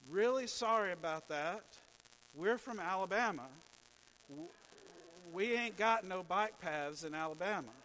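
imitated driver hollering an apology; retold yell from a car. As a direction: call it out like a passing driver apologizing. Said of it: "a guy yelled out the window".

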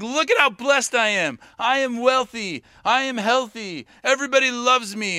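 proud boasting, each claim set out; boastful. Acted. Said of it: "as other people are boasting".

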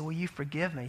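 subdued, softly tearful plea; quiet retold plea, low and mildly tearful. Weeping friend asks the speaker for forgiveness, softly imitated as tearful. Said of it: "He was just crying".

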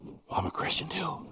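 whispered secret confession. Retold or imitated. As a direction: breathe it like a secret between coworkers. Coworker's secret confession retold.

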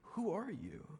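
soft breathless whisper, slowed; hushed, stunned disbelief; awed whisper. Retold or imitated. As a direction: whisper in wonder as she touches him.

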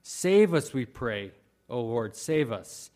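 loud opening cry, Save us; pleading cry. Shown as a demonstration. Preacher voicing the psalm's people, pleading cry. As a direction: call out Save us like a plea. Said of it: "It says".

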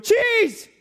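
high, loud ecstatic cry of cheese; hungry mouse shouting for cheese; greedy mouse. Pretend. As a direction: squeal for the cheese in delight. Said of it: "He's going".

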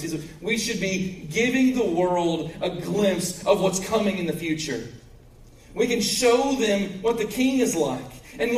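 high-pitched, earnest pulpit voice; emphatic preaching. Real, not acted. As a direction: preach it with conviction.

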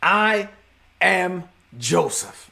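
slow, halting confession with long pauses; understated, emotion-laden announcement; imitating tearful reveal. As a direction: reveal it word by word, as if through tears. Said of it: "through the tears, he says to them".

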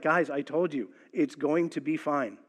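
a touch of a pilot calming passengers; calm captain voice. Retold or imitated. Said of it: "the captain comes back on and he's like".

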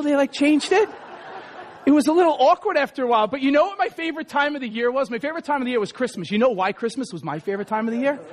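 normal talking voice

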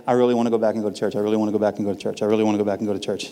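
rapid low repetitive pestering; imitated wife's relentless droning plea; nonstop nagging. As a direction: rattle it off on a loop without a break. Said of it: "you know, like, nonstop".

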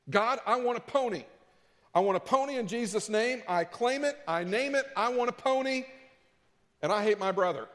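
put-on high whiny childish demand; whiny selfish prayer. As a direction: beg for a pony like a spoiled kid. Mocking a selfish pony prayer.

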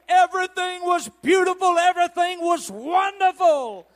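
high, loud revival preacher; impassioned pulpit shout, stretched out at the close; full-force preaching. Acted. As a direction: shout it out in driving, rhythmic declarations.

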